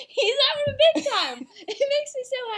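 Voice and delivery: bursting into laughter mid-sentence; laughing. Real, not acted. Host cracking up at the dancing Pope gif, real laughter.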